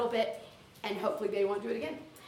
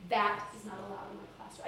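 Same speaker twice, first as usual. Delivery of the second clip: gentle, softer classroom correction; nice; 3 semitones lower, 6 dB quieter than usual. Shown as a demonstration. Teacher leading practice of a rule line, nice. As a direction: kindly state the rule, keeping it soft. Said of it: "kind of nice when you walk up".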